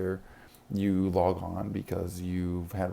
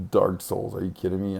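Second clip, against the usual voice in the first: loud exasperation; 7 dB louder than usual. Retold or imitated. Player reacting to Dark Souls, loudly exasperated. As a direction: come down hard in mock outrage. Exasperated aside about a hard game.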